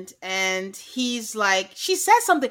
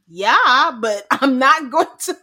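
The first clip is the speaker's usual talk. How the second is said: laughing brush-off; 3 semitones higher, 10 dB louder, slower than usual. Retold or imitated. Quoting Paul laughing it off.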